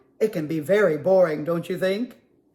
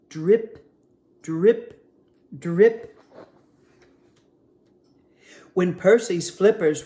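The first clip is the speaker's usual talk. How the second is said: put-on lively storybook read-aloud for kids; reading to children. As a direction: read it like story time at the library. Librarian reads picture book aloud.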